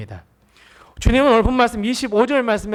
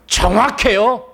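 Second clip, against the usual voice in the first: ordinary talk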